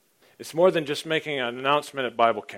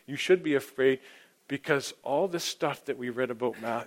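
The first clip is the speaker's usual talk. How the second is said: usual speaking voice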